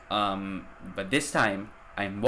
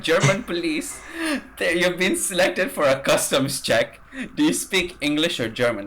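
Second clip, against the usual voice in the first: higher, louder official voice, lightly put on; police officer; 8 semitones higher, 5 dB louder than usual. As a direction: imitate the officer's formal announcement. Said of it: "he's like".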